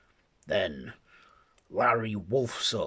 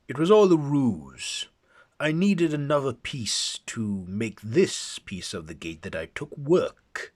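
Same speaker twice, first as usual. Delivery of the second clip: high, loud triumphant reveal; gloating villain; 6 semitones higher, 8 dB louder than usual. Acted. Akaten boasting to Griffin of his ruse, loud gloating reveal. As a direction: savor the betrayal.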